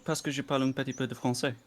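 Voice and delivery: French with French pronunciation; speaking French. Shown as a demonstration. Friend shows off his French, speaking French. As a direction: switch into real French. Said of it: "better when he's actually speaking French".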